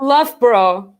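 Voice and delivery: Loughborough squeezed to LUFF-bruh; clipped British Loughborough. Shown as a demonstration. Joking about swallowed place names, Loughborough said LUFF-bro. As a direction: say Loughborough in two syllables, "luffbro". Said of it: "it's like a whole word".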